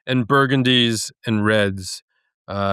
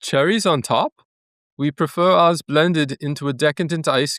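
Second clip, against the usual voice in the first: put-on Danish accent; 3 semitones higher than usual. Host reads a Häagen-Dazs blurb in a put-on Danish accent. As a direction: read the ice cream blurb in a hammed-up Danish accent. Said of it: "let's hear the blurb ... with that accent".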